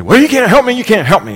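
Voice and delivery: loud, high angry outburst; retold man storming off in anger; angry retort. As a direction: snap it back at him, fed up. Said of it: "he got mad then".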